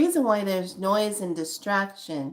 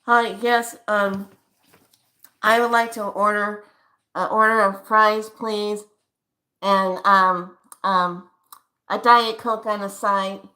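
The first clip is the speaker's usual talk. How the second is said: a touch louder, polite ordering voice; polite drive-thru customer; 4 dB louder than usual. Acted. Customer ordering fries at a drive-thru window, mildly louder. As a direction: order politely at the speaker box. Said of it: "Perfect example".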